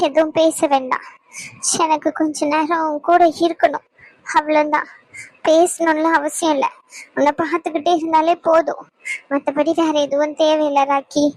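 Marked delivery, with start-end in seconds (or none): 0.1-4.9 tender hush. Acted. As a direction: gently ask them not to speak. Emotional reunion, gently asking for silence. (மென்மையான, தாழ்ந்த குரலில்)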